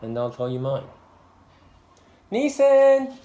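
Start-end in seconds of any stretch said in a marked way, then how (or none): 2.3-3.2 calling a dog. Real, not acted.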